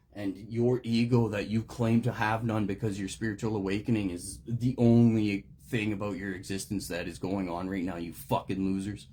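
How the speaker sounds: addressing fake-spiritual recovery members with loud fury; furious rant. Real, not acted. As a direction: let the real rage pour out. Rant at people in recovery rooms.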